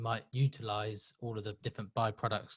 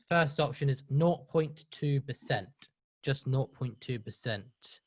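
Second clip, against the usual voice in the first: slow, deliberate quiz option; slowly; slower than usual. Real, not acted. Host reading the first quiz option to the audience, slowly. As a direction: read the option out slowly and clearly. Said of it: "I'm gonna say them slowly".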